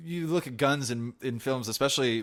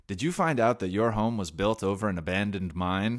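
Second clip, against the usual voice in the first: mock commercial pitch, swelling louder and slower; radio commercial announcer; 8 dB louder, slower than usual. Host mimicking Pittsburgh radio ads, radio commercial announcer. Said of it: "different commercials where someone's like".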